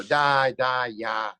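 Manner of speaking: hammed-up stand-up Russian accent; comedy-club Russian accent; joke Russian accent. Shown as a demonstration. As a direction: toss out mock Russian syllables like a comic. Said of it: "stand-up comedian Russian joke".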